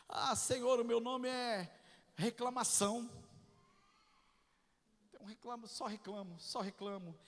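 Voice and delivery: hushed lament. Acted. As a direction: sigh out each confession to God. Voicing believers' sad confessions.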